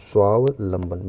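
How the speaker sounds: स्वावलंबन said slowly, with the वा clearly sounded in the middle; slow careful pronunciation. Shown as a demonstration. Teacher to students, slowly sounding out स्वावलंबन. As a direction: spell it out by ear: स्वा-व-लंबन, slow. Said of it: "एक वा बीच में और लगेगा".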